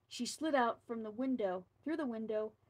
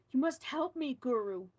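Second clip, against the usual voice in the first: urgent plea; 2 semitones higher, 5 dB louder than usual. Acted. Governor begging the guru for help, frightened and urgent. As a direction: plead with him, frightened.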